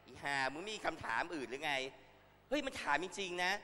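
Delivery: angry rant. Real, not acted. Ranting at the reporter.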